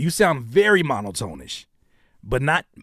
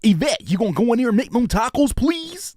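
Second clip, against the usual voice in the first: movie voiceover impression; 8 semitones higher than usual. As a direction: belt it like a TV-edit dub. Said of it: "Like, those voices".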